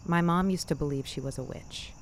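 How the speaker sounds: plain reading voice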